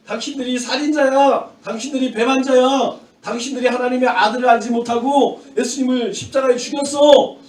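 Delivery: moderately heated scolding; acted rebuke. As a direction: act out Stephen reproaching the crowd. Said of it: "책망을 하면서 이야기를 했어요".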